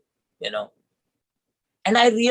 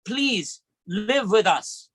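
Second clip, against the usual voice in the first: slow plea; 5 semitones higher, much slower than usual. Retold or imitated. Pleading with grieving mother.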